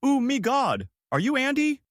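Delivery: high-pitched, loud squeal of a greeting; shouting. A narrator's reading. Tinder date rolls up to Andy at the bar, shouting. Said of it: "rolls up and shouts".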